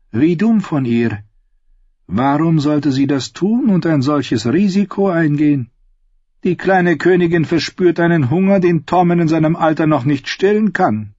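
lady confiding a juicy secret to the queen; sly lady. Acted. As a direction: let the scandal drip out. Lady's sly gossip with queen.

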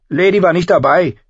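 loud, high angry call; furious young girl. A narrator's reading. Arya defending her sister's wolf, furiously. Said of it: "rief Arya wütend".

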